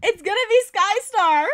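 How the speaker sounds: high, loud, worked-up exclamation; excited outcry. Real, not acted. Excited reaction to new leader name.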